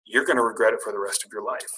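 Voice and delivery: lightly voiced Sam, low-key and sure; a hint of a friend's warning. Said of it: "Sam's voice in my head's like".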